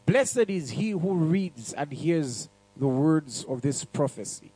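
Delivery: slow, measured Bible reading; scripture reading. Acted. Preacher reading Revelation aloud to the congregation, slow and measured. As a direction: read it out slowly to the church.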